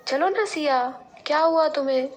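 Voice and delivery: pleading to come along, bright and quick. Acted. Avni coaxes Siya. (उत्साह से मनाती हुई)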